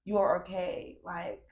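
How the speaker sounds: quiet, tender comfort to herself; gentle inner-child comfort; softly reassuring self. Retold or imitated. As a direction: hush and reassure, like to a baby. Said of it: "I keep saying".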